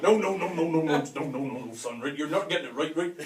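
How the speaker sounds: a dad patiently correcting his son; exasperated dad. Retold or imitated.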